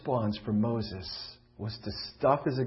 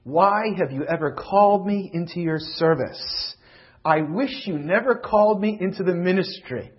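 Moses' bitter complaint; 3 semitones higher, 6 dB louder than usual. Acted. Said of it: "Moses says".

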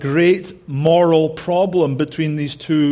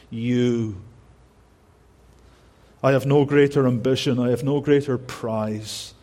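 tender; 3 semitones lower than usual. Retold or imitated. Paul's tender words to Philippians.

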